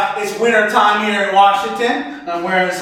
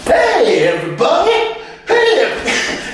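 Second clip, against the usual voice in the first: high little puppet voice; high-pitched comic puppet greeting; talking string puppet; 7 semitones higher, slower than usual. Acted. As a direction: squeak it out like a puppet come to life. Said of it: "here's another impersonation. It's of a string puppet".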